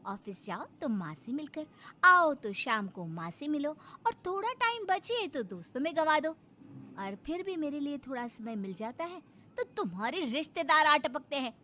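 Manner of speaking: sarcastic, swooping litany of complaints; nagging wife. Acted. Wife to husband about his mother and friends, nagging. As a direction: nag him, point by point. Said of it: "फिर प्रीति का भजन शुरू".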